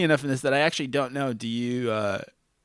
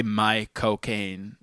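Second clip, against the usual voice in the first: slow Cockney my cocaine; Michael Caine accent; 3 semitones lower, much slower than usual. Shown as a demonstration. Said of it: "you sound like Michael Caine".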